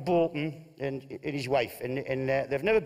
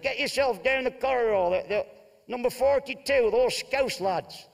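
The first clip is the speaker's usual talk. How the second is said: wife's voice; 8 semitones higher, 3 dB louder than usual. Acted. Wife sends him next door.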